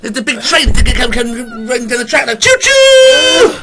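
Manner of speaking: put-on high, playful kid voice; child voice. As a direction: talk like a seven-year-old. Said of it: "as if you were seven-year-olds".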